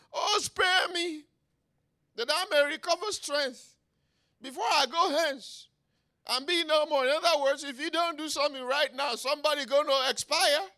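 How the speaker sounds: high, full-force cry for mercy; desperate begging. Acted. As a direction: wail the plea loudly to heaven. David's desperate plea to God.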